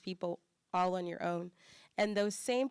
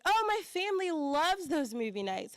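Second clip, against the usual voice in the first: much higher, louder gushing; delighted local; 9 semitones higher, 5 dB louder than usual. Retold or imitated. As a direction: gush like a stranger who suddenly gets it. YMCA member recognizing.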